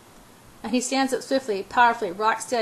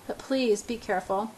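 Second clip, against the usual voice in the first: placating. Acted. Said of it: "placating him".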